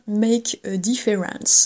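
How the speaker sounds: slow, mock-proud attempt at an English accent; French speaker carefully putting on English pronunciation; super English accent. Real, not acted. Podcaster naming a face cream she bought, super English accent. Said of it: "avec mon super accent anglais".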